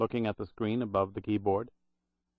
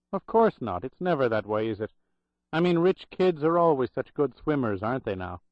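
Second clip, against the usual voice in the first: lightly voiced Irish brogue, bitter irony; a hint of a sardonic Irish brogue; 3 semitones higher than usual. Old Irish clerk mocking the rich kids, light Irish brogue. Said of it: "in a loud Irish brogue".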